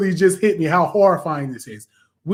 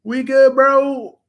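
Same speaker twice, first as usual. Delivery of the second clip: freaking out more with each change back; frantic bro, stop it; panicked pleading; 6 semitones higher, slower than usual. Retold or imitated. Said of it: "Wanda is like".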